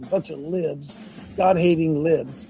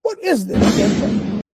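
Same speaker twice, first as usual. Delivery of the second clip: drawn out; 4 semitones higher, 4 dB louder, much slower than usual. Real, not acted. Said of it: "repeated after plain take".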